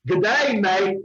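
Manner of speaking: lightly attempted Australian accent. Shown as a demonstration. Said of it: "in an Australian accent".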